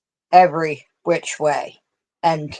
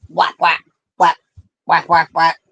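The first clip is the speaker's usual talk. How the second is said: cat swipe noises. Retold or imitated. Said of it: "like an angry cat?".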